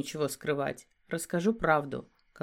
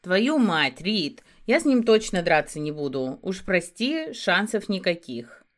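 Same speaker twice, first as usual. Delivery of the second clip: lost exclaim; 5 dB louder than usual. Acted. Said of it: "потерянно произнёс".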